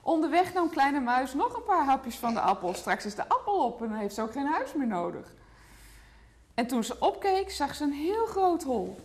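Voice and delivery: put-on lively picture-book read to a toddler; reading to children. A narrator's reading. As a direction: tell the story gently to a small child. (voorlezen aan een kleuter)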